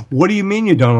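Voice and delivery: high-pitched disbelieving retort; mock incredulity. Upset man challenging the refusal to fight, mock-incredulous. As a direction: imitate a man who can't believe the answer.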